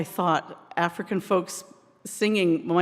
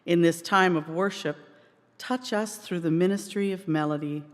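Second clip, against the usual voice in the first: measured prayer with spaced phrases; spoken prayer. Real, not acted. Minister to congregation before singing, measured prayer. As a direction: lead the room gently in prayer, pausing between phrases.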